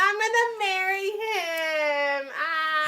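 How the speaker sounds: slow, high, crying with joy; tearful joy. Real, not acted. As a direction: choke up happily. Drunk, overjoyed about her engagement.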